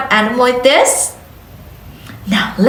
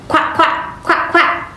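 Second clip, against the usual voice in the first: whispered quack; 3 semitones higher than usual. Shown as a demonstration. Teacher imitates duck.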